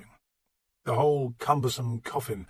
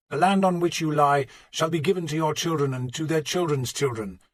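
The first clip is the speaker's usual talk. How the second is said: voice breaking; 4 semitones higher, 4 dB louder than usual. Acted. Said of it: "Plegimund's voice broke as he read the words".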